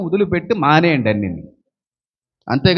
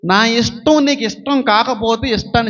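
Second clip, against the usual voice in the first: earnest prayer; 5 semitones higher than usual. Acted. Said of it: "ప్రార్థన ఇది".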